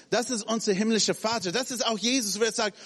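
ordinary delivery

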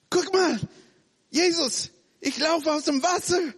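put-on high, excited child calling out; bright high child's cry of look at me; childlike voice. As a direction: play an excited kid showing off to Jesus. Preacher voices a child walking on water.

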